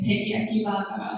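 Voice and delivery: flat Japanese-accented "teriyaki burger"; Japanese English accent. Shown as a demonstration. Teacher showing the menu item, flat Japanese English accent. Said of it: "English accent is really flat".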